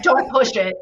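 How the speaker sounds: lightly voiced judge warning her off; super stern judge. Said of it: "in a super stern voice".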